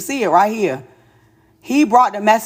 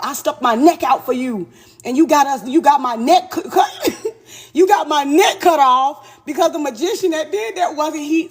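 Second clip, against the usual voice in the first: laughing; 5 semitones higher than usual. Retold or imitated. Voicing the demon, laughing.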